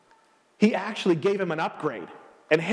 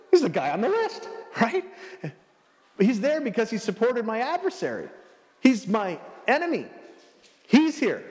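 incredulous emperor; 4 semitones higher than usual. Retold or imitated. Caesar incredulous.

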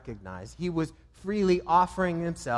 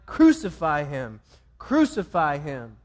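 crowd cry; 5 dB louder than usual. Retold or imitated. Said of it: "now they're crying".

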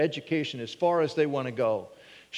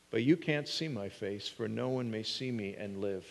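hushed scripture reading; 5 semitones lower, 5 dB quieter than usual. A narrator's reading. Reading God's words to Moses.

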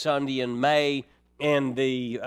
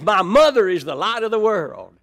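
proud, bold declaration, a little louder; great confidence; 3 semitones higher, 5 dB louder than usual. Retold or imitated. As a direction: announce it proudly like a small boy sure he's right. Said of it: "pumps up with great confidence".

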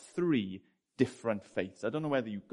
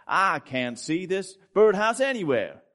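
slow, loud, higher Texan drawl; Chad's Texan accent; 7 semitones higher, 8 dB louder, slower than usual. Acted. Chad the Texan zookeeper, hunting the tree for the birdhouse: slow, loud Texan accent. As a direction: lean into a broad Texan voice. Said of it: "He's a Texan man".

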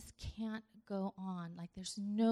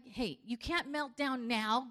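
loud, high, pushy coach voice; mock pep talk shout; 4 semitones higher, 7 dB louder than usual. Angel yelling at Jesus to man up, mock coach shout. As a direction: bark it like a coach yelling get up. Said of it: "he's not like".

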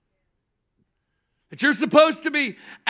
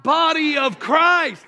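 raised, slow, declared together; call and response; 3 semitones higher, slower than usual. Real, not acted. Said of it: "say it with me".

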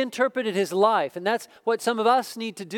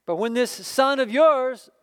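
put-on resentful older son; 3 semitones higher, 4 dB louder than usual. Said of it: "the older brother became angry".

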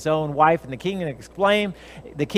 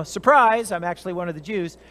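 mock blurted confession. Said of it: "Instead of saying".

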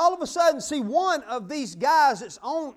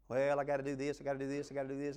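self-absorbed muttering; 8 semitones lower, 8 dB quieter, faster than usual. Pretend.

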